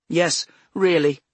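slow, loud, high insistence; forced anger. A narrator's reading. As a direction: insist firmly with put-on crossness. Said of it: "Swift's anger sounded forced".

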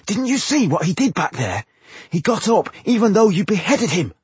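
lightly voiced hero pleading his case; urgent young hero. A narrator's reading. Narrator plays Tungdil arguing.

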